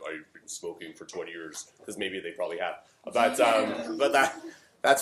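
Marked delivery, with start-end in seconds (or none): 0.1-1.7 lower, softer smoker's voice; mock gruff voice of a heavy smoker; lower-pitched, softer mock smoker; deeper voice. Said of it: "speak in a deeper voice".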